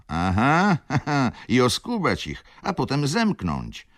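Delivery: high, loud jeering laugh through the words; mocking laugh. A narrator's reading. Wheezy merchant laughing at Wokulski's scheme, mocking. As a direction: cackle it out with scorn. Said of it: "wtrącił dychawiczny".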